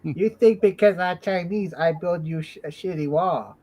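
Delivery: slow mock Chinese accent; South Park Chinese accent. Quoting the South Park wall builder in a mock Chinese accent. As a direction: do a cartoon Chinese accent, slowly. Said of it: "I think they were Chinese".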